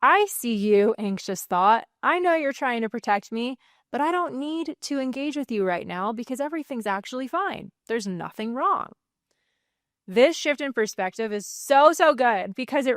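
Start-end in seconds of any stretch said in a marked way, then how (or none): 0.0-8.9 calm, reassuring reply; soothing answer to an anxious thought; calm observer. Shown as a demonstration. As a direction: speak from the outside, steady and kind. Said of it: "And you respond".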